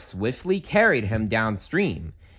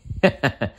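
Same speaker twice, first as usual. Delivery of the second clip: smug chuckle; 3 semitones higher than usual. A narrator's reading. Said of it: "Donald chuckled".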